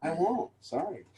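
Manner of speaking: small, soft, sheepish apology; fading off into a meek sorry. Retold or imitated. The speaker meekly apologizes to the angry driver. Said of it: "I go".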